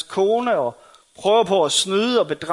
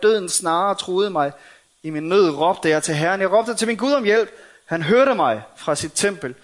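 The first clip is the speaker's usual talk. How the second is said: psalm reading. Acted. David praising God for rescue, emphatic psalm reading. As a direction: declaim the psalm in separate, emphatic phrases.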